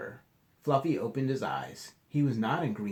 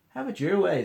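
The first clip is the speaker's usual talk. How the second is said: sassy; 9 semitones higher, 10 dB louder than usual. Acted. Leprechaun retorts.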